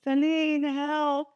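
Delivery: high whiny plea for help; pleading call for help. Retold or imitated. Calling her friend's husband for help, high pleading. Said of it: "And I'm always like".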